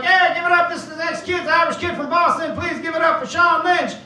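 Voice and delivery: high, hyped-up emcee voice; show host's introduction. Retold or imitated. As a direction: introduce the next act like an excited club host. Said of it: "The host was like".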